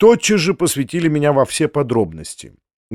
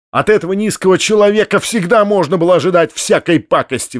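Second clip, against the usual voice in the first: indignant; 5 semitones higher, 3 dB louder than usual. Acted. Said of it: "с самым энергическим негодованием".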